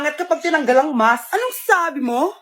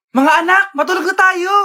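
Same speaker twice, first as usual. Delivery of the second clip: loud motherly call to bed; 5 dB louder than usual. Acted. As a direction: call everyone to sleep. Mother calling children. (malakas na tawag ng nanay)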